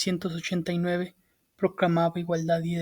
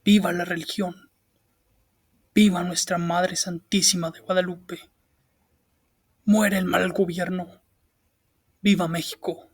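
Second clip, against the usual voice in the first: rousing battle cry to the crowd, a bit louder; fiery revolutionary speech; 4 dB louder than usual. Acted. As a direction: proclaim each viva like a rallying call. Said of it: "arengó al pueblo con palabras que aún resuenan".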